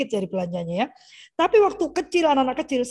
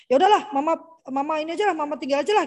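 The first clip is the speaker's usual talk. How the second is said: put-on older child giving up; 4 semitones higher, faster than usual. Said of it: "anak saya kalau yang besar bilang".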